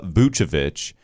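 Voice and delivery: Vucevic said VOO-chuh-vitch; CH pronunciation. Shown as a demonstration. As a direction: put a CH in the middle of Vucevic. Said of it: "there's two C H's here".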